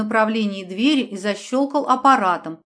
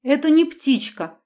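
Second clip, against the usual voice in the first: tipsy cry, higher; drunk shout; 4 semitones higher than usual. Acted. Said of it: "пьяно выкрикнула Аня".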